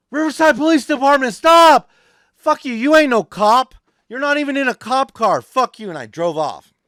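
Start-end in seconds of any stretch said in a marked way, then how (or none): 0.1-1.9 much higher, much louder command; retold cop shout. Cop yelling in retold chase. 2.4-5.9 much higher, louder dismissive shout; yelling back at an unmarked car; retold defiant yell. Retold defiant retort to cop.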